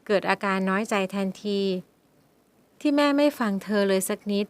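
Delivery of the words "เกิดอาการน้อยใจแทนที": ordinary delivery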